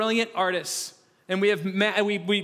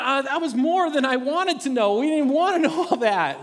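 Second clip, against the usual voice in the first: higher, laughing mock recoil; amused listener; 4 semitones higher, 3 dB louder than usual. Congregation reacting to the overshare, laughing. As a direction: back off with a laugh. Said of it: "You're going".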